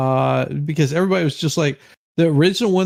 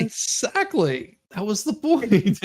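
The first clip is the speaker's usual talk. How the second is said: drawn-out exactly; 6 semitones higher, slower than usual. Real, not acted. Teasing agreement.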